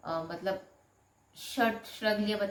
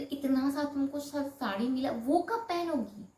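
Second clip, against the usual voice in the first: slow, higher mocking husband nagging; 6 semitones higher than usual. Wife imitates husband nagging about wedding sarees, slow and higher. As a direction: drag out the husband's complaint, pitched up. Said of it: "बोले".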